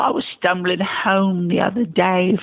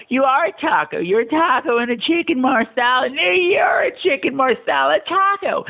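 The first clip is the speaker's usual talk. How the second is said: put-on drunk self-argument; 5 semitones higher than usual. Drunk man arguing with himself over chicken marsala and taco, building to a yell. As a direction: argue both sides, getting angrier. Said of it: "So it went something like this".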